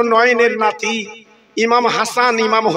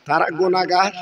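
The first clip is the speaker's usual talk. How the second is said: crescendo list of sinners, peaking in a shout; building denunciation; 4 dB louder than usual. Acted. Lists the sinners in rising climax.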